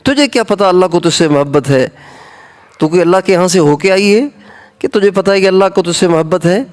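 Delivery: retold master's scornful shout, quick near the end; a preacher's hammed-up yell at a foolish girl; scolding shout. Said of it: "اس نے دو زور سے چیخ کے کہا".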